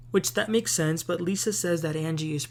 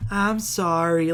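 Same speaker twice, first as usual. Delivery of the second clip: slow, sarcastic fake apology; slower than usual. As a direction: say sorry without meaning it. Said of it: "It sounded really sarcastic".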